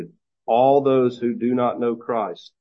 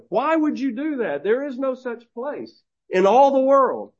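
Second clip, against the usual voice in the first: much higher, scoffing voice; mocking atheist; 13 semitones higher than usual. Atheist laughs at Christian heading to the city, scoffing. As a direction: scoff at the pilgrims' foolish quest. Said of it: "he laughed at him".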